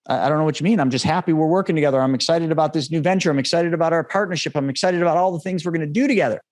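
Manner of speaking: upbeat, happy reassurance; excited caller, mildly acted; cheerful. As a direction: imitate an eager partner brimming with plans. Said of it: "he's so cheerful. He's so happy".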